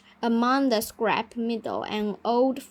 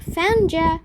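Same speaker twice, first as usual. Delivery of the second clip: higher, louder gotcha shout; playful scream; 6 semitones higher, 5 dB louder than usual. A narrator's reading. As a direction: yell it out triumphantly.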